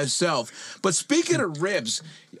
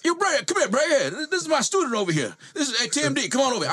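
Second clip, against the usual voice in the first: shouting trainer; 9 semitones higher, faster than usual. Retold or imitated. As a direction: call Bret over eagerly, pitched way up. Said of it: "he'll go".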